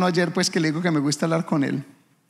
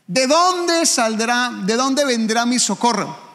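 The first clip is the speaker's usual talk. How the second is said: slow, high cry to heaven; dramatic psalm cry; 6 semitones higher, 3 dB louder, slower than usual. Acted. A preacher reciting the psalm, slow and pleading. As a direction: lift the question up like a plea.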